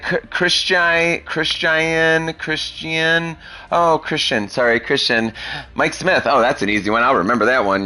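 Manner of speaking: high, drawn-out stumbling over the name; mock teacher voice. Teacher mangling the kid's name, hammed-up. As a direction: play a teacher fumbling a hard name. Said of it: "They'll be like".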